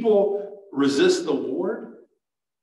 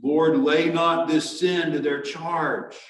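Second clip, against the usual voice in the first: slow, raised cry of prayer; crying out loudly; 3 semitones higher than usual. Acted. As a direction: call it out slowly to the Lord. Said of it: "he cried out loudly".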